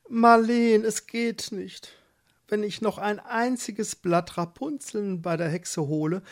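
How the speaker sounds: a hint of a worried young husband; pleading husband. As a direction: coax her to hold out a little longer. Husband pleads with pregnant wife.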